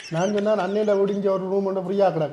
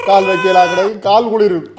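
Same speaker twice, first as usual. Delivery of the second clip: raised, higher-pitched grumble; loud complaining; 3 semitones higher, 6 dB louder than usual. Acted. Newcomer moaning to housemate about freezing feet, loud complaint. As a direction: protest loudly as the cold gets to you.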